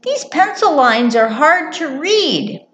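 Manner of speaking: high mouse character voice; little mouse, struggling. Acted. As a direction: complain mildly as a little mouse. Mouse squints at paper.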